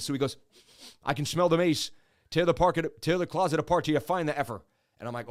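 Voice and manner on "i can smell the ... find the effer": imitated Irish-cop brogue. Cop hunting the runner by smell, Irish brogue. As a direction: give the order in an Irish brogue. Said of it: "one of the cops had an Irish brogue".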